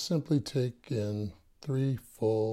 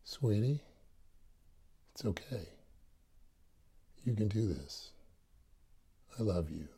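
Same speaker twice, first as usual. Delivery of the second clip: softer gentle inner voice; 6 dB quieter than usual. Retold or imitated. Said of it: "that voice says".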